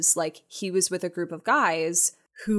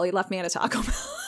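laughing; faster than usual. Real, not acted. Punchline of her own story.

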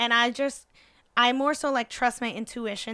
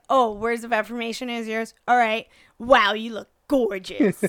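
super sarcastic; 7 dB louder than usual. Retold or imitated. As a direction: lay the sarcasm on thick. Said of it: "super sarcastically".

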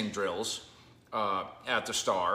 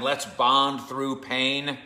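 mock slogan; 4 dB louder, much slower than usual. Mocking old-school camp slogans.

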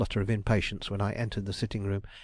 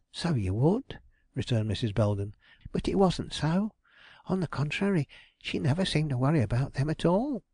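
a hint of a put-upon woman, pitched up; a fretful widow lightly voiced, higher; lightly voiced aggrieved landlady; 6 semitones higher than usual. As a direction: complain as a flustered landlady. Belden answering.

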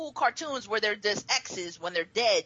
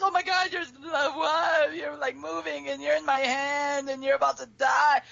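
panicked; 4 semitones higher than usual. Retold or imitated. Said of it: "I was like".

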